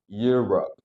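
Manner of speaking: EUROPE shut off on the P; measured teaching EUROPE with a stopped P; closed final p. Shown as a demonstration. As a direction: close the lips on the end of EUROPE. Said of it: "Ditutupin, jangan lupa".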